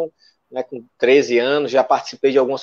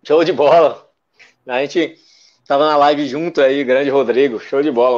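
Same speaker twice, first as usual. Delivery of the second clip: talking with mouth full. Real, not acted. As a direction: speak through a mouthful of tapioca. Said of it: "Vou falar de boca cheia mesmo".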